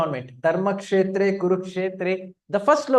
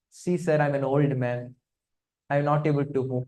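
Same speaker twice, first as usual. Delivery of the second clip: put-on a slightly lower, weary-old-man plea; retold slow-speaking old monkey, understated; lightly voiced old man; 4 semitones lower than usual. Old monkey excuses himself to Bhima, lightly voiced old man. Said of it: "this monkey slowly, slowly sp-, started speaking".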